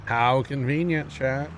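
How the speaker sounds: mock delight, dragged out slowly; slow sarcastic drawl. Real, not acted. Streamer to chat, slow sarcastic drawl about the AI helper. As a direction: stretch it out, dripping with sarcasm.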